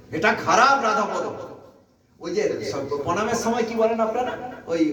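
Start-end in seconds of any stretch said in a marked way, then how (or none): 0.1-1.2 retold angry rebuke. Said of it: "রেগে বলেছিল".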